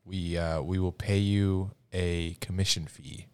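normal talking voice

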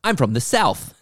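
badly faked Southern accent; terrible Southern accent. Red-haired star telling the camera where she's from, bad Southern accent. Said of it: "her terrible Southern accent".

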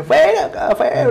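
fuera de sí. Retold or imitated. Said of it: "le decía".

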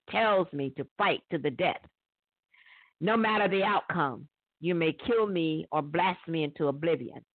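lightly voiced eerie enemy. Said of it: "I'm gonna try to make it sound eerie".

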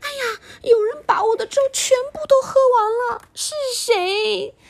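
very high, fast, whiny cub; baby bear voice. Acted. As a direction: squeak and whimper like a cub. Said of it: "宝宝熊就说".

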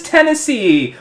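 wrestling promo. Pretend. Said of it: "Hold for applause".

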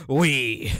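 loud, hammed-up French; mock French. Podcaster playing French dub, loud mock French accent. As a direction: say it as a cartoon Frenchman. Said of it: "with a French accent in English".

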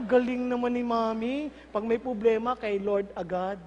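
low, slowing admiration of mother; admiring child. Acted. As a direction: marvel calmly at Mommy. Admiring child praises praying mother. (humahangang anak)

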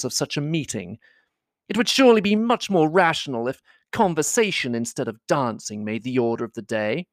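airy, bored society lady; lightly voiced Miss Bingley. Caroline to her brother, complaining of balls, lightly voiced.

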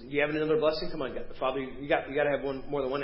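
casual, offhand retelling of a plea; flippant. Acted. Esau asking his father for another blessing, read flippantly. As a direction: toss the plea off lightly. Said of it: "I'm sounding very flippant when I say it".

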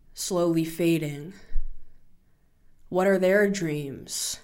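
slow, measured reading with long pauses; poem reading. Acted. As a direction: read it like an inspiring poem. Reads her piece The Dreamers.

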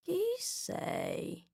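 languid, sleepy caterpillar asking who she is. A narrator's reading. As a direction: drawl it out half asleep. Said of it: "con voce languida e assonnata".

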